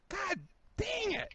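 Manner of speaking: high, drawn-out frustrated cry; exasperated. Real, not acted. Reviewer giving up on Hendrick cars, exasperated. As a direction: wail it slowly in frustration.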